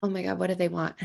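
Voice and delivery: subdued, tight acted dread; frozen. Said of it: "or you freeze and you're".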